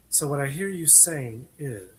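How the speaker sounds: HR professional voice. Retold or imitated. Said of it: "here's Doctor Green".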